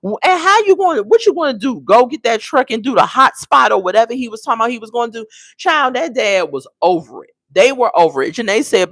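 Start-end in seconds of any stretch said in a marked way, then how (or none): 0.0-5.2 high, rushed disbelieving questions; fast, exasperated challenge. Pretend. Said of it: "I said".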